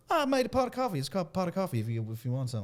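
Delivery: a hint of a friendly Southern host. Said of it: "He's like".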